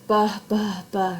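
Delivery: each "buh" a separate burst; popped B sounds. Shown as a demonstration. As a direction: punch out "buh" as a bare B sound. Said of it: "highlight the poem's sound devices".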